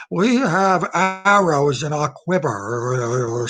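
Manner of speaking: slow, drawn-out mock Pelosi quote; Nancy Pelosi impression. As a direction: stretch it out like a quivering old politician. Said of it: "she said as she was quivering".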